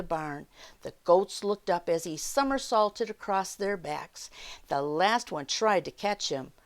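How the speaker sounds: unhurried read-aloud for little listeners; children's story time narration. A narrator's reading. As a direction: tell it like a picture-book storyteller.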